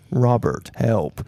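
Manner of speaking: deadpan mock plea for help; Marcus the Worm. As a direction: imitate a helpless little character, understated. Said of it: "ones where he's like".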